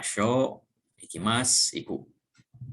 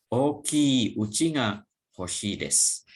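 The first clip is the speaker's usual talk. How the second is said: slow model answer; 2 semitones higher, slower than usual. Shown as a demonstration. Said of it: "buat dialog seperti contoh".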